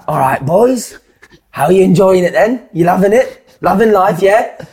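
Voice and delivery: a manager greeting young players, mock hearty; cheery greeting. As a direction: boom it out like a jolly manager. Martin Allen's cheery greeting retold.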